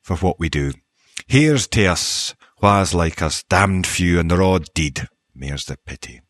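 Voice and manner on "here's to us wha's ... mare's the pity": Scottish poem recital. Acted. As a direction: recite a Scottish verse, letting the last line fall away. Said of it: "here's a wee bit of a Scottish poem".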